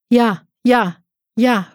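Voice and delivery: loud, high desperate yes; calling out. Acted. Patient in agony calling to the nurse, loud desperate cry. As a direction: cry out in pain, agreeing at once. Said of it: "roep ik".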